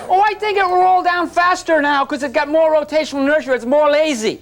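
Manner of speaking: a hint of a naive student; mock student voice. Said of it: "how many say".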